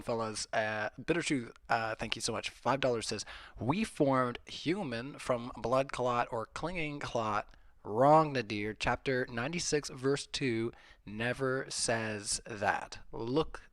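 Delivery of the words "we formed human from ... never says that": "blood clot or clinging clot" read slowly, word by word; deliberate emphasis. Real, not acted. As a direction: stretch "Wrong, Nadir" and "never says that" with weighty pauses. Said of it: "put the emphasis on the right syllables".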